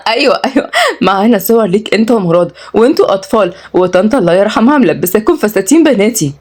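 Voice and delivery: acted laugh into playful teasing; merry. Cousin teases about childhood photos in dresses, merry. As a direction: tease gleefully in a lifted voice. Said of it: "ردت ياسمين بمرح".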